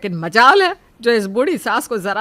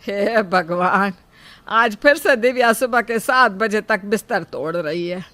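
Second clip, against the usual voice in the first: grumbling; 2 semitones higher, 8 dB louder than usual. Acted. Mother-in-law grumbling about her late-rising daughter-in-law, grumbling exasperatedly. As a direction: grumble with weary, emphatic complaint. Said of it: "Sujata अभी बड़बड़ा ही रही थी".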